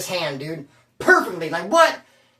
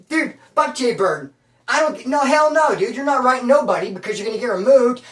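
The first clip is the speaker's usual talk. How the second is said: angry retort; 4 semitones higher, 4 dB louder than usual. Retold or imitated. Yelling at cellmate mid-fight.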